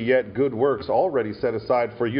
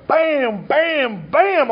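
punching sounds; 12 semitones higher, 3 dB louder, much slower than usual. Retold or imitated. Retelling punches on ram.

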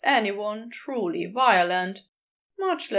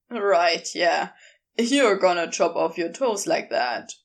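lower, firmer man's voice; a lower Crowley, teasing and sure; Crowley's voice; 6 semitones lower, 3 dB louder than usual. Acted. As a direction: drop low and speak with easy authority.

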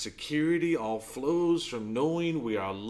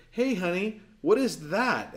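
put-on higher-pitched sing-out to a small child; doting father; 6 semitones higher than usual. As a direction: voice a dad coaxing his little girl. Father quizzing his small daughter again.

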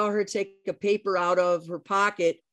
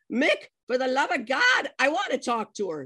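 higher-pitched mock exasperation; exasperated; 5 semitones higher than usual. Wife wanting the phone from her husband, exasperated. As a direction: plead impatiently, imitating a fed-up wife.

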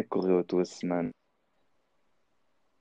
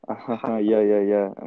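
fake laugh. Shown as a demonstration.

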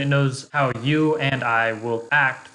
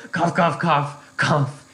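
fake cough; 4 semitones higher, much slower than usual. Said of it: "unless you skip the intro".

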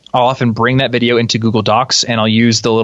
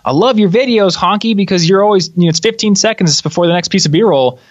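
higher-pitched impression of a fellow creator; Chase Reeves; 7 semitones higher than usual. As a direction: imitate a friend's excited praise, pitched well up. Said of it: "It sounds just like Chase".

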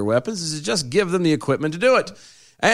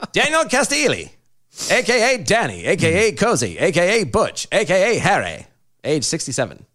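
1930s gangster voice; 2 semitones higher than usual. Acted. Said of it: "trying to read it fast and do it".

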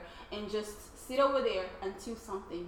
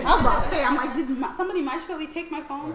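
laughing; 6 semitones higher, 12 dB louder, faster than usual. Real, not acted. Lost phone found in pocket.

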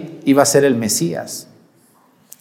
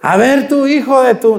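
higher, half-serious shouted insult; raised mock jeer, cut short; mock heckling yell; 7 semitones higher than usual. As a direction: play at heckling a passing politician. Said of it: "le gritan algo".

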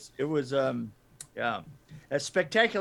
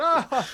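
higher, louder mock laugh; imitated laugh; 8 semitones higher, 5 dB louder than usual. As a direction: imitate a character laughing at the bats. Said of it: "he was laughing at the bats".

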